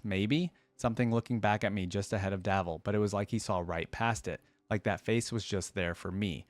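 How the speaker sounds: hushed, haunted storytelling read; dramatic story narration. Acted. Streamer reading a horror story to viewers, dramatic narration. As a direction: tell it like a shaken survivor in the dark. Reads a dark story aloud.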